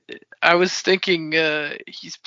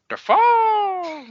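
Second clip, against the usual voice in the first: much higher, louder laughing shout; shouted name; 7 dB louder than usual. Acted. Friends joking about Willem Dafoe, loud laughing shout.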